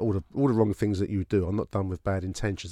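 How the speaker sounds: ordinary delivery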